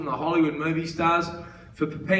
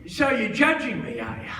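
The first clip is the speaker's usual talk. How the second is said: mock indignation, starting high and dropping; offended old man; 3 semitones higher than usual. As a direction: take umbrage as the old fella. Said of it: "got a bit offended by that".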